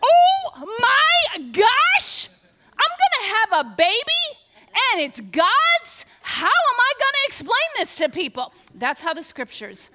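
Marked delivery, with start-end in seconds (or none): 0.0-8.5 loud, high, frantic shrieking; a loud comic panic, squealing in disbelief; panicked freakout. Pretend. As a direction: freak out like a terrified teen. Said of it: "I would have been like".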